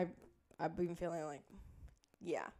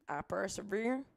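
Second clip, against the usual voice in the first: put-on Southern accent. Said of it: "Can you hear it?".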